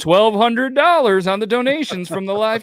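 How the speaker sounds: high, loud, drawn-out announcement; excited announcement. Real, not acted. Host announcing donations from the live chat, excited. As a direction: announce it loudly, stretching it out.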